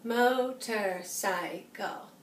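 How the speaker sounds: "Motorcycle" split slowly into its four syllables, each counted. Shown as a demonstration. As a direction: stretch "Motorcycle" out, one beat per syllable. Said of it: "Let's count the syllables".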